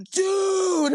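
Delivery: very high, drawn-out exclamation; high-pitched mock shriek of recognition; retold amazed recognition. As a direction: imitate someone suddenly realising who this is. Acted delighted recognition in retelling.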